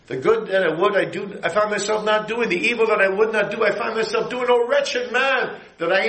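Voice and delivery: high, pleading, slowing to "wretched man"; anguished Paul, dragged out on the last line; Paul's lament. Retold or imitated. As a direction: cry out as the struggling apostle. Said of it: "You know, Paul did".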